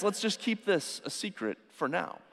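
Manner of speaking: softly, as if sharing a secret; a quiet confiding aside; hushed secret. Retold or imitated. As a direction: keep it between us, quietly. Jesus asking for secrecy.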